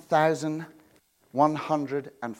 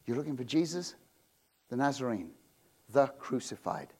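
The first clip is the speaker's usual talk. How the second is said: tender reading; 3 semitones lower, 5 dB quieter than usual. Shown as a demonstration. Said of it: "so that you make no mistake".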